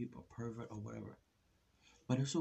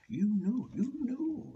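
much higher, louder outburst; angry shout; 13 semitones higher, 7 dB louder, slower than usual. Real, not acted. Calling out the woman in spandex, shouting angrily. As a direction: yell it, fed up.

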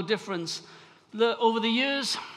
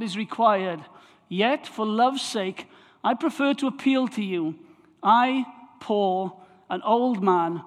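measured reading aloud, phrase by phrase; scripture reading. Acted. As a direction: read the epistle out to a congregation, each phrase set apart. Reads the letter aloud to congregation.

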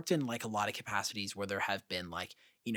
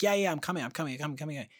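higher, hurried repeated reply; flustered calling back; 5 semitones higher, 4 dB louder, faster than usual. Retold or imitated. Crew member answering a summons, flustered calling back. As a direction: call out as if scrambling to get there.

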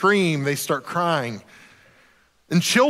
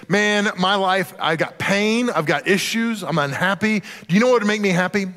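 mock teen complaint; 3 semitones higher than usual. Preacher voices an unhappy teenager, mock complaint. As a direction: grumble like a self-pitying teen.

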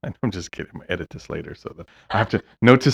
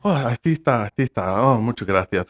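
put-on Mexican Spanish accent; 2 semitones higher, 3 dB louder than usual. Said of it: "speak like a gay Mexican".

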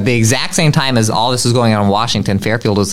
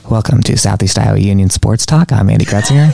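hushed public radio host; NPR announcer voice; 2 semitones lower, 3 dB louder than usual. Retold or imitated. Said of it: "pretending that we were gonna come on as the N P R".

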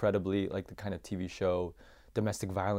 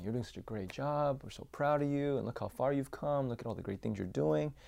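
retold applauding praise; 5 semitones higher than usual. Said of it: "but they were applauding me".

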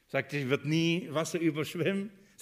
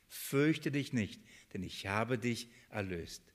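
slow and much softer; soft repetition; 6 semitones lower, 7 dB quieter than usual. Shown as a demonstration. Preacher repeating the beloved verse softly to himself. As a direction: murmur it back as if savouring it.

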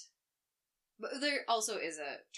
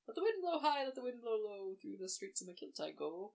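put-on Scottish accent, slow, sing-song folk tune; slower than usual. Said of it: "when I do a Scottish accent".

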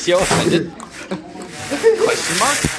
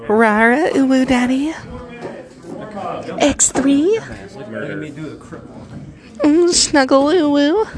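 higher breathy cutesy uwu voice; cutesy furry voice; 8 semitones higher than usual. Pretend. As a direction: coo it like a cute furry. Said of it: "the furry section of the podcast".

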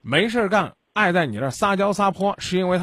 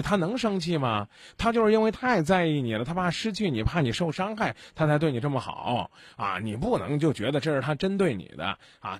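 mild woman soothing; 3 semitones lower, 4 dB quieter than usual. Shown as a demonstration. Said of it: "来个女的，劝你媳妇儿".

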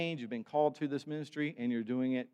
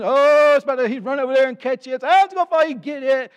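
much higher and louder, mock alarm; panicky excited; 13 semitones higher, 15 dB louder than usual. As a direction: shout it like a plate's about to fall. Plate spinner rushing to catch plate.

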